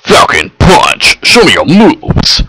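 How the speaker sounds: slow, drawn-out shouted war cry; hammed-up battle shout. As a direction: yell it like a fighting game hero. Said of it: "I have no idea why I felt the need to say that".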